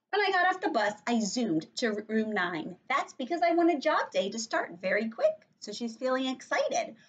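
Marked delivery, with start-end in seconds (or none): 0.1-5.3 put-on lively first-person child narrator; animated story reading. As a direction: read aloud to children, pitch jumping up.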